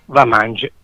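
"va mange" said softly in Sicilian; Sicilian dialect. Shown as a demonstration. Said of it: "in siciliano".

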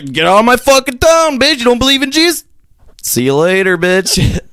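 a comic playing a rampaging Catholic, mock yelling; mock crusader yell. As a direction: ham up a raging crusader. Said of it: "Fucking rampage".

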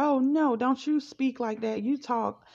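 high, scolding mother voice; mother scolding the family at dinner for speaking French, high and sharp. Retold or imitated. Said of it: "She said".

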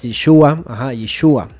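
Yeshua, the U carrying the accent; stress on the U. Shown as a demonstration. Teacher models the Hebrew name, Yeshua stressed on U. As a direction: demonstrate Yeshua as ye-SHU-a. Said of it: "en la U".

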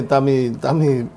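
talking through a mouthful of food; slow words round a bite of food; mouth full. Real, not acted. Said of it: "tu pergunta de boca cheia".

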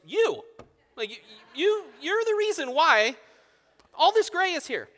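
high, loud blaming retort, stumbling at first; indignant mock outburst. Dad acting his reaction to child's gray-beard question, mock indignant.

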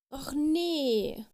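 high, loud, drawn-out fairy wail; dismayed cry. A narrator's reading. Little fairy has dropped her wand, crying out. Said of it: "schrie die kleine Fee".

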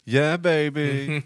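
put-on slow drawn-out yeah baby; Austin Powers impression. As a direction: stretch it out smugly. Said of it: "where he goes".

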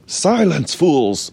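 high, commanding villain cry; evil villain outburst. Acted. Villain poodle silences the chattering crew, high shout. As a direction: cut them off with a ringing villain shout. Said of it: "my evil villain voice".

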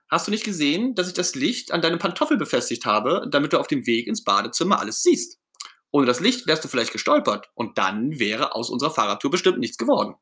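high start, earnest explanation; Ernie, justifying himself. Acted. Ernie explaining to Bert where the light went, justifying himself.

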